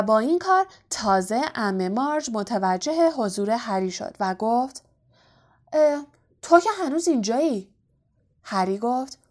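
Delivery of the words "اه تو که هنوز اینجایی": higher-pitched, faintly disgusted question; mild scornful surprise. A narrator's reading. Aunt noticing Harry is still there, mild scorn. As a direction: sneer lightly at an unwelcome child.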